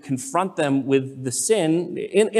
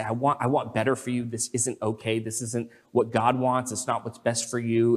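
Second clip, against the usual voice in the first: low, soft, caring reproof; loving confrontation; 4 semitones lower, 6 dB quieter than usual. Acted. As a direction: gently confront someone you care for, voice lowered. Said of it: "lovingly confront them with their sin and say".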